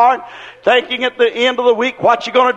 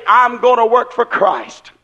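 fired-up resolve. Retold or imitated. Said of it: "you work on that job and you say".

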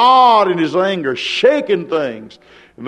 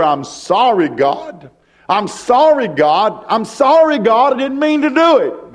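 pleading repeated apology; 4 semitones higher than usual. Retold or imitated.

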